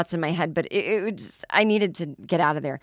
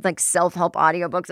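ordinary talk

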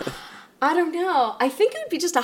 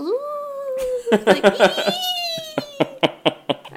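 playful spooky voice; much slower than usual. Pretend. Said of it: "I'm a banshee".

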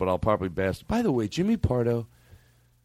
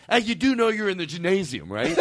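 higher-pitched comic impression, laughter creeping in; Jimmy Pardo; 5 semitones higher than usual. Host retelling a gym bit, amused higher-pitched impression. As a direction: imitate a comedian's mock-earnest question. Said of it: "Picture Jimmy Pardo".

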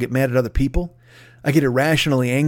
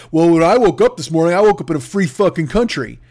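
louder, indignant put-on voice; mock entitled customer; 4 dB louder than usual. Lightly voiced entitled shopper lecturing the Costco manager. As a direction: puff up with indignant righteousness. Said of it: "he's just like".

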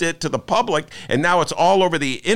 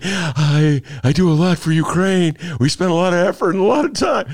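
Trump impression; 4 semitones higher than usual. Host redoing his Trump voice for the co-hosts, brash. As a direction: ham up the Trump boast. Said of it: "my Don Trump imitation".

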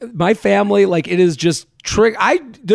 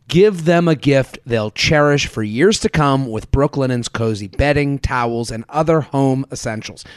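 measured, lower-pitched sponsor read; 4 semitones lower than usual. Real, not acted. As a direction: deliver the sponsor copy evenly. Reads a sponsor spot.

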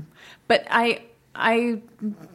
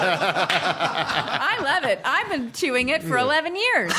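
ad read; 3 semitones higher, slower than usual. Pretend. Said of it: "That's not a good commercial".

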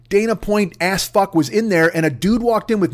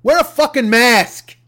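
shout; 4 semitones higher, 4 dB louder, slower than usual. Real, not acted. Shouted demand.

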